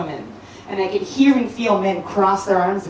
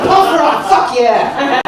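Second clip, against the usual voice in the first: I'm like; 4 semitones higher, 5 dB louder, much slower than usual. Retold or imitated. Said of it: "I'm like".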